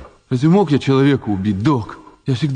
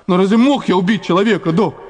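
desperate; 8 semitones higher than usual. Acted. Desperate denial of murder.

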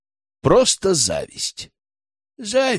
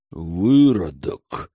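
slow, low growl of contempt; growled insult; 6 semitones lower, much slower than usual. A narrator's reading. Lyubomir spitting it at the traitor, a slow low growl. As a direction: drag the word out low and menacing. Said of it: "прорычал Любомир".

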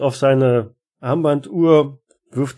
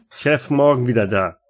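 put-on broken German, Russian accent; Russian janitor sending them away; 3 dB louder than usual. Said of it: "mit einem deutlichen russischen Akzent".

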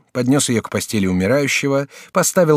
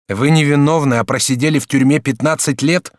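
higher, brighter-pitched polite youth; lightly raised student voice; young student Jacques; 4 semitones higher, 5 dB louder than usual. Acted. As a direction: play the courteous young student.

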